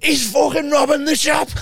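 high, loud panicked yell of alarm; panicked inner shout. Retold or imitated. Retelling the shop scene to mates, a high panicked yell. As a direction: shriek it like you've just seen a robbery. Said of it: "My brain went".

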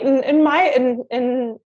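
tripping over words, emotional; choked-up stammering; stuttering. Real, not acted. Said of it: "now I'm just mumbling and stuttering".

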